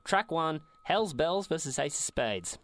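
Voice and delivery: announcer. Pretend. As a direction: kick off the battle like a ring announcer. Host announces the battle round.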